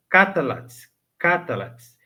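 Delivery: Catalates in three beats, vowel sounded after the L; Catalates with full vowels. Shown as a demonstration. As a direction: pronounce every syllable of Catalates. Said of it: "Muitos não pronunciam. Aqui tá".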